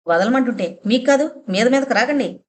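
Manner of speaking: rising anger, pitch climbing on the second line; angry refusal, voice lifting; fierce protest. Acted. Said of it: "Rajamma కంఠం పెద్దగా, తీవ్రంగా".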